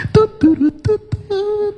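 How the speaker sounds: high, playful phone-beep imitation; high beeping tones. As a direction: beep like a hold tone. Host imitates a waiting beep. (menirukan bunyi nada tunggu telepon)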